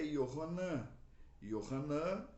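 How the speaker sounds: Yohanan as yo-ha-NAN, Hebrew style. Shown as a demonstration. Teacher explaining the name João, Hebrew Yohanan. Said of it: "em hebraico é".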